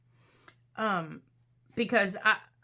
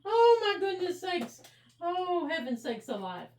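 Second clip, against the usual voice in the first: flustered exclamation; 8 semitones higher than usual. Real, not acted.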